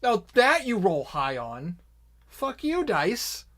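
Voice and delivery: high, exasperated gripe at the dice; mock outrage. Real, not acted. Game master complains that now the dice roll high, exasperated.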